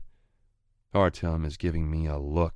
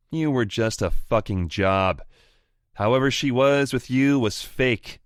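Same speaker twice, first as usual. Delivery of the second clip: higher, louder cocky sneer; gloating rival voice; 3 semitones higher, 6 dB louder than usual. Acted. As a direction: rub it in his face. Anton gloats over the phone.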